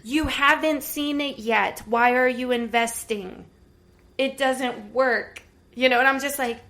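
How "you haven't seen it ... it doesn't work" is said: slow, louder exasperated yell; scream at the TV. Retold or imitated. Viewer yelling at the TV about investors, exasperated. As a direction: half-shout at the screen in disbelief. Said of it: "wanting to scream at the T V".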